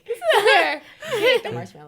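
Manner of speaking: laughing while telling it; high laugh through the words. Real, not acted. Laughing retelling about her son.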